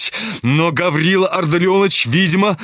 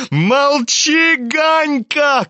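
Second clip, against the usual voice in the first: put-on much higher, boyish yell; Kolya shouting; 9 semitones higher, much slower than usual. A narrator's reading. Younger brother yelling at Ganya to shut up. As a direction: shout him down. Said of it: "кричал Коля".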